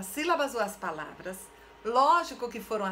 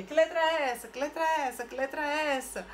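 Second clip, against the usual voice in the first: higher-pitched rote questioning; old-school drilling teacher; 4 semitones higher than usual. Retold or imitated. Teacher recalling old letter circles, singsong drilling. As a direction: repeat it like a mechanical class drill. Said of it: "E saía".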